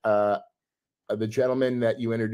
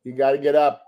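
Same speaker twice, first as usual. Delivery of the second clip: higher, raised-voice order to dad; exasperated shooing; 4 semitones higher, 4 dB louder than usual. Real, not acted. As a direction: shoo dad out of the room, voice raised. Shoos dad out mid-podcast.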